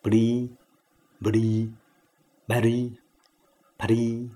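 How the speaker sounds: 不离 four ways: pṛ, bṛ, bhṛ, phṛ; four sounds contrasted. Shown as a demonstration. Teacher reads four together: 不离 as pṛ, bṛ, bhṛ, phṛ. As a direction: step 不离 through plain p, b, breathed bh, puffed ph. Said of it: "四个音一起念".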